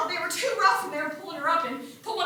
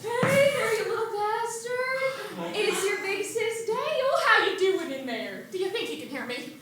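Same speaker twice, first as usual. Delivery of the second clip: put-on cooing at baby. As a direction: coo gently down to the unborn brother. Talking to the baby bump.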